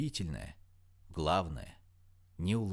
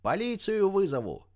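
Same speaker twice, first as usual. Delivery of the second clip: much higher, outraged threat; frantic mother's yell; 10 semitones higher, 4 dB louder than usual. A narrator's reading. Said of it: "истошно кричала за спиной девушки её мать".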